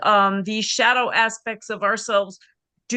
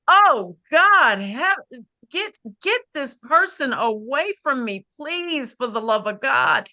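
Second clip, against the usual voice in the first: exasperated plea; 3 semitones higher than usual. Retold or imitated. To herself about a draining client, exasperated plea. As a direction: beg to be rescued from her. Pleading to get client away.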